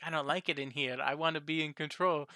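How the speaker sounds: bad British accent. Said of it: "I was trying to do a British accent".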